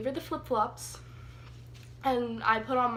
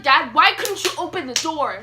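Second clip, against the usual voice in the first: calling out to dad; 2 semitones higher, 8 dB louder than usual. Retold or imitated.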